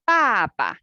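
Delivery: "ba" full, then the second "ba" short and light; second "ba" quick and unstressed; neutral tone contrast. Shown as a demonstration. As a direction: say "ba ba" with the second syllable clipped short. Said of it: "which one you think is neutral tone".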